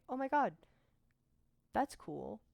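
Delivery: high, loud burst of delight that settles; thrilled shout easing to cool; excited outburst. Retold or imitated. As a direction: blurt it out in sudden delight. Reacting to friend's news.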